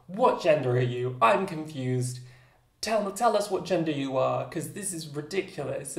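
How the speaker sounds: hammed-up demanding bafflement; mock indignant. Imitating online commenters questioning her gender, mock indignant.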